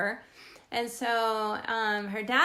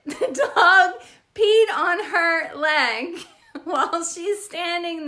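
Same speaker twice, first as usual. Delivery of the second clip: louder, higher laughing telling; 5 semitones higher, 7 dB louder, slower than usual. Real, not acted. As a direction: laugh through the punchline. Laughing at dog story.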